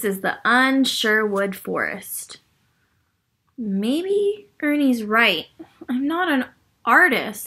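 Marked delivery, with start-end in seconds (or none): 3.6-7.5 sighing Linus. Acted. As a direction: let each word drag with defeat. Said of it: "Linus sighed".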